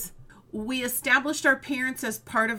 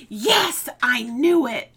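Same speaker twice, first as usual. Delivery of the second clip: put-on excited kids; 9 dB louder, slower than usual. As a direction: cheer it like a kid. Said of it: "they're like".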